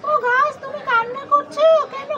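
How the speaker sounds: put-on a small boy gently comforting a sad tree; voicing her little son. Mother as her son, softly consoling a crying tree.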